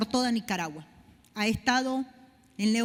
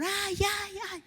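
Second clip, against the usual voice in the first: higher, a mild mock cry of pain; imitating crying in pain; 7 semitones higher, 5 dB quieter, slower than usual. Sick woman crying as the pastor lifts her legs, mild pained whimper. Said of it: "ella lloraba del dolor".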